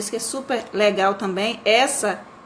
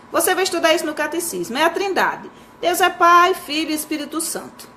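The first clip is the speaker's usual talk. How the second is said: lightly acted mother, pitched up; mãe ensinando; 6 semitones higher than usual. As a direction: instruct your son, voice lifted high. Mother instructs child in catechism. (mãe ensinando o filho, tom agudo)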